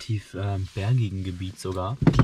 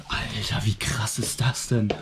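whispering; 3 dB quieter, slower than usual. Real, not acted. Whispering in the spooky setting.

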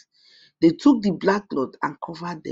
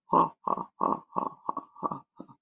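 witch laughing aloud; 7 dB quieter than usual. A narrator's reading. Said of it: "She laughed aloud".

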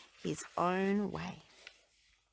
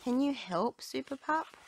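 farmer voice; 8 semitones higher, 4 dB louder than usual. A narrator's reading. Farmer Yumi asking Rubble.

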